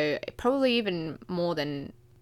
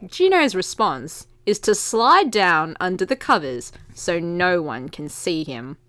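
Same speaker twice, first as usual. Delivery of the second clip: usual speaking voice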